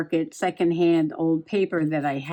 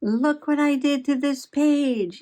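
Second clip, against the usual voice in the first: higher, slower cutesy possum voice; Possum Patty voice; 6 semitones higher, 3 dB louder than usual. Pretend. Possum mascot showing the viewers her page, cutesy high voice. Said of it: "what did you do, Possum Patty?".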